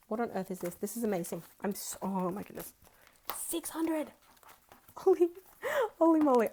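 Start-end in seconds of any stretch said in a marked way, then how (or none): 3.4-6.5 high, loud burst of delight; excited exclamation. Real, not acted. Vlogger amazed at savings total, high excited cry. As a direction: exclaim in disbelief at the sum. Seeing six hundred dollars saved.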